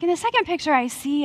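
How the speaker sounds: put-on pious hesitation; trying to sound spiritual. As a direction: imitate someone awkwardly sounding spiritual. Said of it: "I'm trying to sound spiritual 'cause I feel weird".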